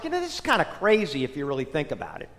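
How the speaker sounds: fast unvoiced whisper to himself; a rushed inner-voice whisper; whispered thought. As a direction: whisper it quickly like a private thought. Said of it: "I thought to myself".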